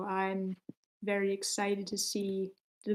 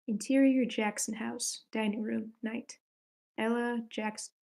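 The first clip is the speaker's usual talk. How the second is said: script reading; 2 semitones higher than usual. Acted.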